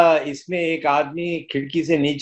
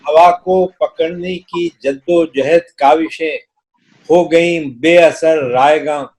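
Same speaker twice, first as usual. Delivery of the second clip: stately nazm recitation. Acted. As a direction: recite the poem with gravity.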